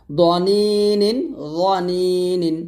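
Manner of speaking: দনিনিন very slow with a thick দ; heavy dad, slow. Shown as a demonstration. Teacher demonstrating heavy দ in দনিনিন. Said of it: "দ জবর দ মোটা করে".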